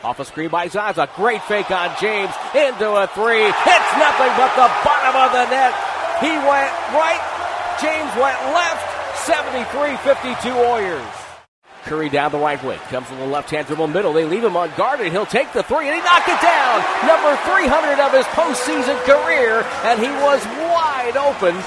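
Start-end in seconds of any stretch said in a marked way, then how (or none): 2.5-11.0 high, ringing play-by-play; elated, raised-pitch commentary; excited three-point call. Real, not acted. Live call of a made three. 15.1-21.6 high, ringing play-by-play; raised, elated commentary voice; excited milestone call. Real, not acted. Live call of milestone three.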